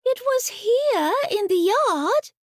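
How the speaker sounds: put-on high, slow little girl's voice, sorry and sad; a small girl answering sadly about her lost scooter. Little girl tells grandmother sadly where the scooter was. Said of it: "Sasha answered sadly".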